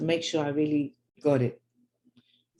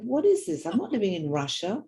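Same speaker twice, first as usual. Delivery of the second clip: defiant outburst; 7 semitones higher than usual. Retold or imitated. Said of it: "And one day she said".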